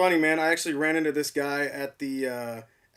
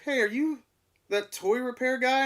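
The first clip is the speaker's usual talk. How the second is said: excited recognition; 9 semitones higher than usual. Retold or imitated. Fan recognizes him in store.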